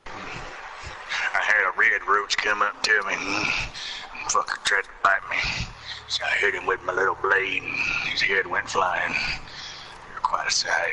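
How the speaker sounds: put-on Carl Childers voice.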